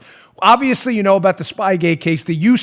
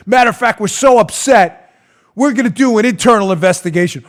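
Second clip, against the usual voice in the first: mock indignation. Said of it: "I gave you the dreaded wink and the nod".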